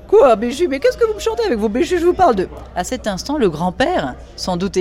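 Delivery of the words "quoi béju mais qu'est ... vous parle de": high, loud affected society lady; high, loud voice of an affected Parisian lady complaining about the noises; Diane's voice. Acted. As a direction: play the shrill grande dame fussing at breakfast. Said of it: "Diane answers Luce".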